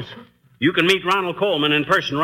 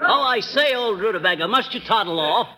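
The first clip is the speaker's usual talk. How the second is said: high, fluting mock-English toff; affected British drawing-room voice, higher pitched; put-on British accent; 5 semitones higher than usual. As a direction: ham up an English dandy. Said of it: "a fellow with a British accent".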